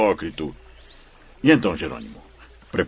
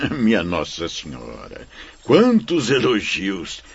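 amused laugh. Acted. Flattered by praise, laughs.

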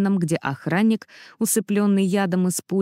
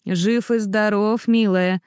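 slow, gentle reassurance; reassuring; slower than usual. Acted. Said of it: "сказал Джин".

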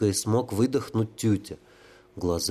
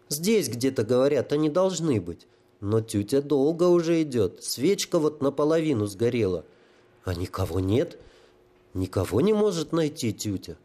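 a hint of a high childlike voice; fretful simple soul; lightly voiced holy fool; 4 semitones higher than usual. Holy fool tells the sapper of his search, lightly childlike.

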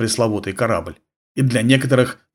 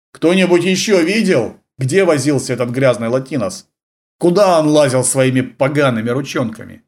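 shouting; 3 semitones higher than usual. Acted. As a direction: call out harshly to everyone. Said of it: "он крикнул".

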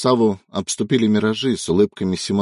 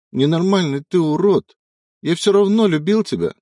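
high, louder tearful shouting; anguished sobbing shout; 9 semitones higher, 4 dB louder than usual. Acted. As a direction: scream through the tears. Son screams over dead father.

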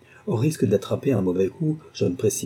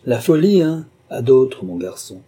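loud, high scornful jeer; mock his excuse with contempt; sneering; 4 semitones higher, 6 dB louder than usual. A narrator's reading. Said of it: "ricanai-je". (ricanement méprisant, fort et aigu)

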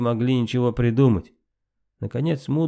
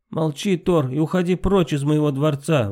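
angry exclamation, pitched up; гневный возглас; 5 semitones higher than usual. Acted. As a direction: order him out in anger. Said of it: "воскликнула она". (гневно, с возгласом)

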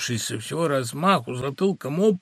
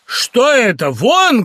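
higher, louder shout; 9 semitones higher, 7 dB louder, much slower than usual. Acted. Husband ordering the clerk out, shouting. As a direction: order him out. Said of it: "крикнул Зиновий Борисович".

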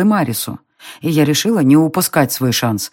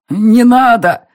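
louder, higher plea; desperate cry; 7 semitones higher, 5 dB louder, slower than usual. Acted. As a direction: cry out to stop him. Son begs father.

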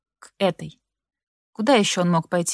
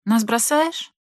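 put-on childish squeak; 3 semitones higher, much slower than usual. A narrator's reading. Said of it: "закончил по-детски пискляво".

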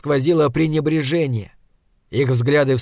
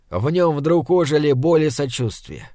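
ordinary delivery

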